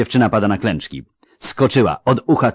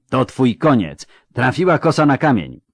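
louder, higher, slightly false bravado; overdone shout; 6 semitones higher, 4 dB louder than usual. A narrator's reading. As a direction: bluff a threat and overplay it. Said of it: "Przesadziła chyba". (przesadzony, fałszywy okrzyk)

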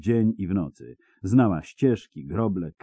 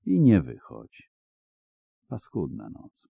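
gentle and soft. A narrator's reading. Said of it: "łagodnie i miękko".

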